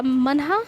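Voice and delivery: मनहा ending in a clear "ha"; careful teacher's demo of the ha ending in मनहा; visarga as ha. Shown as a demonstration. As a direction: sound out the final हा of मनहा slowly. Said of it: "विसर्ग का उच्चारण हा के समान होता है".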